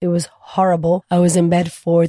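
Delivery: hoarse after being sick; rough, scratchy voice; raspy voice. Real, not acted. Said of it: "apologies on this raspy ass voice".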